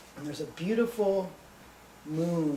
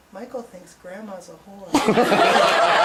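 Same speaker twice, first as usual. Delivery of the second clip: put-on tender to baby; 3 semitones higher, 10 dB louder, much slower than usual. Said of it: "he looks at the baby really tenderly".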